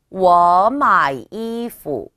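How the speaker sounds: 워 마이 이푸 very slow and loud, each tone drawn out; model reading. Shown as a demonstration. Teacher reads the sentence for learners, slow exaggerated tones. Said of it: "읽어보면".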